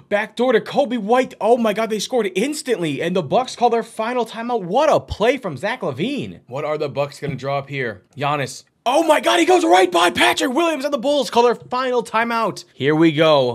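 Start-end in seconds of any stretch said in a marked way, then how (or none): 0.1-6.4 raised pitch, astonished at the quick score; amazed play-by-play. Real, not acted. Commentator after the Bulls scored instantly, amazed play-by-play. 8.9-12.6 high, loud play-by-play cry; thrilled outburst. Real, not acted. Commentator as Giannis goes right by Williams, thrilled outburst. Driving basket call.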